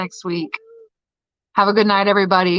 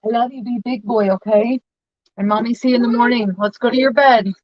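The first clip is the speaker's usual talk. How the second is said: coaxing, higher mommy voice; 4 semitones higher than usual. Real, not acted. Bedtime talk with toddler.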